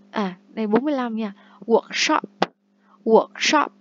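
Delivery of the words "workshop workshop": Workshop đọc to, rõ, lên giọng cuối; English word model. Shown as a demonstration. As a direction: read Workshop aloud and clear. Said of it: "teacher models word twice". (đọc mẫu từ Workshop)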